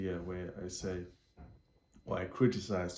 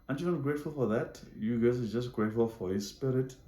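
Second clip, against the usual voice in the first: raised, incredulous appeal; exasperated challenge; 2 semitones higher than usual. Retold or imitated. Speaker to church group posting thanks, exasperated challenge.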